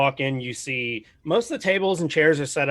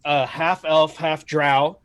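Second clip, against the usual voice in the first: ordinary delivery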